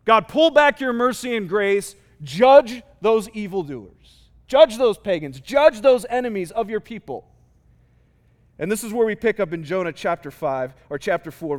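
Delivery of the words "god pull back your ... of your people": forceful plea, a little louder; praying for judgment. Acted. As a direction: call on God insistently, leaning on each demand. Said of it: "he's basically praying that God would still bring judgment".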